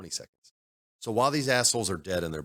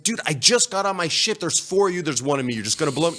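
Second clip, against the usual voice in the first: frustrated protest; 8 semitones higher than usual. Retold or imitated. Gamer re-enacting plea to four attackers, frustrated. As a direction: argue it like a fed-up gamer. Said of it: "It can be frustrating as hell".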